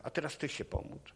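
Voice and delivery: hushed, breathy whisper; a man quietly urging a newcomer to pray, whispered; retold whisper. Praying man softly tells him to pray.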